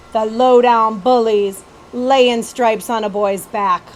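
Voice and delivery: slow, loud indignant country voice; indignant Betsy. Acted. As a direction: spit it out at the bullies slowly.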